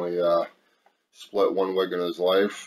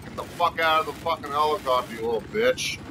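angry yell; 7 semitones higher, faster than usual. Real, not acted. Yelling at enemy in game.

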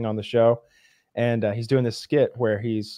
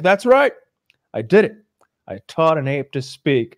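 proud professor; 3 semitones higher, 5 dB louder than usual. Retold or imitated. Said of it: "he's like".

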